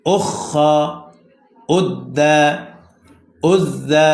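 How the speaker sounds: measured word-by-word reading, doubled consonants held; reading drill. Shown as a demonstration. Teacher showing students how the joined syllables read, measured drill reading. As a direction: read each word alone, evenly, with pauses between. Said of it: "এবার reading লক্ষ্য করেন".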